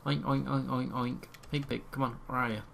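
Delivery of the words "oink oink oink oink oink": spoken mock oinking; playful pig oinks. Player luring pigs out, playful oinking. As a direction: call the pigs in their own noise. Imitates pigs to call them.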